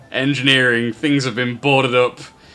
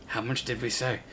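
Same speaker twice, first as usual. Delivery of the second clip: hushed, much softer goblin aside; hushed whisper; 10 dB quieter than usual. Acted. Goblin checks the price with his workers, hushed. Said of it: "tries to say in a hushed whisper".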